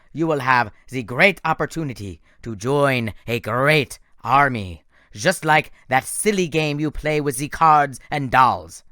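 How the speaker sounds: loud, slow mockery; sneering villain. Doctor Thorne mocking Nico's card game, slow and sneering. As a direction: belittle the boy's hobby.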